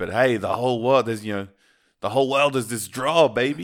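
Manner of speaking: put-on loud New York accent. Retelling a story's plot, voicing the character Robert in his New York accent. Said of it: "in his New York accent".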